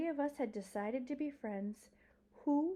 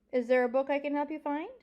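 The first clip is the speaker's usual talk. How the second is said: helpful librarian; 6 semitones higher, 8 dB louder, faster than usual. Acted. Miss Franny quotes her younger self.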